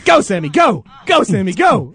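loud, punchy chant; loud comic cheer; mock cheering. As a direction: egg him on like a rowdy crowd.

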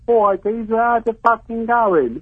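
mock Dick Van Dyke. British caller copying the host's impression, mock Cockney. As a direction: mimic a bad stage Cockney accent. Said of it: "Smede's impression of some sort of Dick Van Dyke".

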